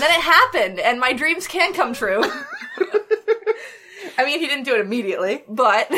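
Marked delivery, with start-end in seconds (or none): 2.3-3.7 high delighted laugh. Real, not acted. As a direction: burst out laughing.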